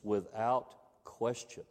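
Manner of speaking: without question slowed, weight on without; emphasis. Shown as a demonstration. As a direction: press down slowly on without.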